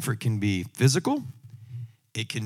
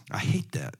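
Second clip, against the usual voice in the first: breathy whisper, voice dropped away; whispered aside; 5 semitones higher, 7 dB quieter than usual. Real, not acted. Preacher confessing he hated the casserole, whispered.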